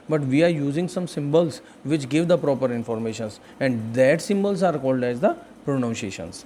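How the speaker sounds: slow, deliberate teacher reading out English; slow English dictation. Shown as a demonstration. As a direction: spell it out slowly for the class. Teacher reading English definitions slowly. (धीमे-धीमे अंग्रेज़ी में पढ़ाते हुए)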